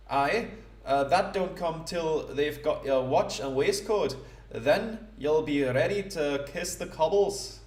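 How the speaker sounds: a lightly done, self-mocking Scottish accent; a rough Scottish rogue voice, slowing on the last line. Gamer voicing the thief Lefty in a bad Scottish accent. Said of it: "absolutely horrible, approximation of a parody of a Scottish accent".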